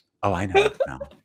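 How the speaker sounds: mock quiet whisper. Imitating Claire, blindfolded, saying she knows someone by smell: imitating Claire whispering. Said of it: "like, whispering it too".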